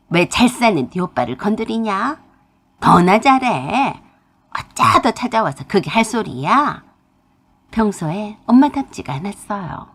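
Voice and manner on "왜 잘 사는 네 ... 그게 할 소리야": mother turning on her daughter in anger; mother snapping back. Acted. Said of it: "엄마가 되려 제게 화를 내셨어요". (딸에게 화내는 엄마)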